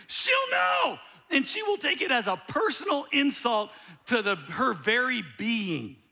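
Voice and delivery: high, loud, urgent insistence; insistent shout. Retold or imitated. Wife warning her husband about grandma, a high, loud, urgent insistence. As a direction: shout it high, dead certain.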